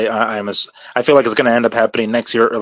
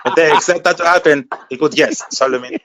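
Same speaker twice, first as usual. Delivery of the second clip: hint of a Mexican accent, slightly higher; a light go at a Mexican accent on request; 5 semitones higher than usual. At the host's urging, a mild Mexican accent. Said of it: "that's my best, uh, accent".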